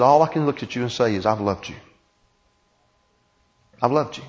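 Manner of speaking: soft, tender, almost whispered; tender hushed voice. Acted. God softly telling Israel he loved them, hushed and tender. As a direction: murmur it like a grieving father.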